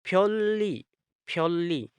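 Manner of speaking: फ्योली said twice with a doubled l; फ्योली, the n turned into a long l; Korean pronunciation drill. Shown as a demonstration. Teacher repeats फ्योली for students. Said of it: "तो इसको पढ़ेंगे".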